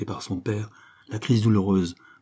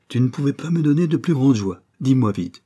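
louder, lifted, overjoyed father; delighted exclamation; 5 semitones higher, 5 dB louder than usual. A narrator's reading. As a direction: cry out with delight, eager to hear more. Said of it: "s'écria le baron ravi".

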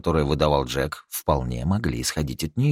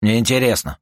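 a curt, louder grumble; grumbled; 6 semitones higher, 5 dB louder than usual. Acted. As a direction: brush her off with a grunt. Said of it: "буркнул Юджин". (буркнул резко)

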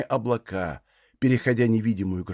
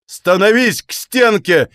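higher, louder, slow stuttered command; drawn-out stammering shout; 6 semitones higher, 6 dB louder, slower than usual. A narrator's reading. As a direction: drag out the order, stammering with rage. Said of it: "протяжно заикаясь, крикнул Бунчук".

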